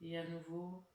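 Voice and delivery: sparse, unhurried meditation-style guidance; guided breathing. Real, not acted. Leads a breathing exercise.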